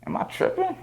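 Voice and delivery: high, breathless whisper to himself; whispered disbelief. Retold or imitated. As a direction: whisper it like you can't trust your eyes. Doubting his eyes at a rapper.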